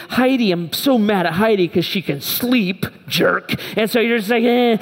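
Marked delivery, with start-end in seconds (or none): 0.1-3.6 mildly acted resentful grumble; infuriated. Husband lying awake mad at his sleeping wife, mock infuriated. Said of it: "just laying there infuriated". 4.4-4.8 higher mock grunt of anger; frustrated growl. Husband lying awake just angry, mock frustrated growl. Imitates his wordless anger in bed.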